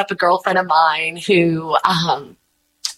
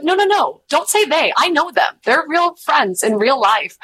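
emphatic protest; 7 semitones higher than usual. Retold or imitated. Retold protest defending friends.

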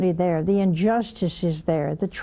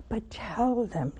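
gently; 5 dB quieter, slower than usual. Real, not acted. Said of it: "in a nice way".

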